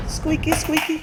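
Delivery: high, slow squeaky chant; squeaky sing-song. Pretend. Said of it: "playful sound-play on the word".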